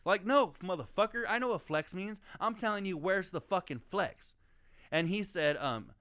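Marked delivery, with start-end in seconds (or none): 0.1-4.4 higher, hammed-up indignant retort, fast at first; mock outraged rant. Telling off the guy who mocked his Denny's. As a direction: act out the exasperated comeback, voice climbing. Retelling heated online argument with Doug.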